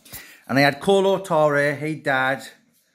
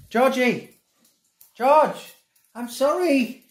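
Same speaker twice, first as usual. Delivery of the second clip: high, drawn-out apologetic call; calling the dog; 9 semitones higher, much slower than usual. Real, not acted. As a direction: call out to a pet, pitched way up.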